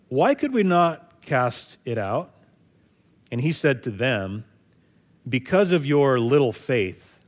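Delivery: measured Bible reading voice; steady, unhurried reading of scripture. Acted. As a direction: read the passage out to the congregation. Reads the scripture passage aloud.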